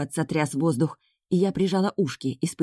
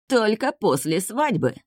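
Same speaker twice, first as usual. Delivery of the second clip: slow, higher, silky insistence; insinuating; 5 semitones higher, slower than usual. A narrator's reading. Scratched man sets his condition for the niece, insinuatingly. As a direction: draw it out slyly. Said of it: "вкратчиво проговорил исполосованный мной мужчина".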